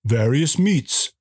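badly faked French accent with dramatic pauses; mock French accent. Restaurant host pitches his crepe buffet, in a mock French accent. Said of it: "I do a really good French accent".

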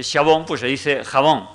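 xabón with sh, jabón with harsh j; sh versus j. Shown as a demonstration. Lecturer contrasts the two sounds, xabón then jabón. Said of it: "en vez de decir".

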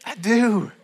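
squeaky-high mock submission to God; meek high reply. Acted meek answer to God.

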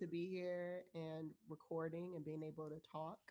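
blocked nose, speaking through congestion; stuffy nose. Real, not acted. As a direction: talk like you have a head cold. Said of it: "I sound a little stuffy".

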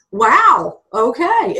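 a lightly voiced stunned wow. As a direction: react as if floored by the news. Stunned reaction to horse.

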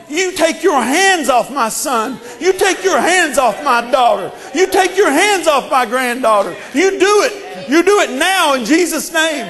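shouted command in Jesus' name. Retold or imitated. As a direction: order the devil off your family. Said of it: "I can say".

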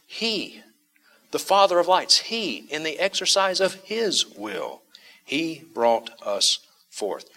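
each HE pitched high and set apart; emphatic. Acted. Preacher voicing James's intentional emphasis on God, emphatic. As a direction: hold out every HE, slowing down to the end. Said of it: "And this is intentional".

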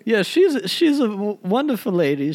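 lightly voiced British gent, stammering; a hint of gushing British actor; Kenneth Branagh. Caller praises his co-star, lightly put-on British gent. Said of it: "a wimpy little British gent".

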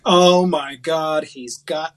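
put-on hillbilly accent. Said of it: "why am I doing it in that accent?".

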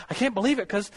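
mock-heated insult, breaking into a laugh; retold heated argument. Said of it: "starting to get a little heated".

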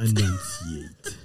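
"Enunciate" drawn out slowly, high and laughing; over-pronounce "Enunciate" syllable by syllable, mockingly; exaggerated enunciation. Mocks the word just said.

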